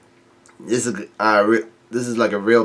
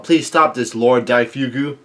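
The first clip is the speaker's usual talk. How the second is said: retold yell. Soldiers plead with Lord Daifuku, mild retold yell. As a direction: voice a half-hearted soldiers' plea. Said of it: "soldiers all yell out".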